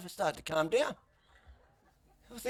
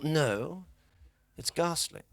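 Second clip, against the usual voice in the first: put-on calm posh English accent; 3 semitones higher, much slower than usual. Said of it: "Clive was like".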